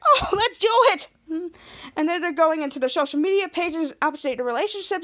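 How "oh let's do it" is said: loud, very high burst of glee; excited squeal. Retold or imitated. Bianca to Henry, now a couple, excited squeal.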